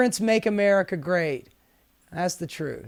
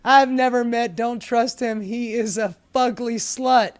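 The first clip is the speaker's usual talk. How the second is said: light Trump voice; 2 semitones higher than usual. Acted. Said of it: "giving us the Trump voice".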